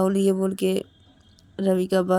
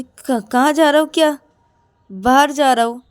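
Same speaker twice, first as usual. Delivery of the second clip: irritated retort; 4 semitones higher, 4 dB louder than usual. Acted. Rahul retorts, about to leave.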